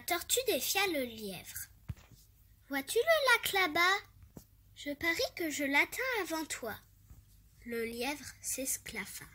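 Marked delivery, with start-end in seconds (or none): 2.7-6.8 challenging tortoise. Acted.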